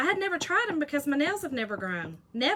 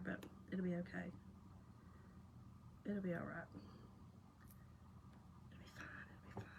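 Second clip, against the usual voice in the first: self-reassurance; 4 semitones lower, 21 dB quieter, much faster than usual. Real, not acted. Reassuring herself softly.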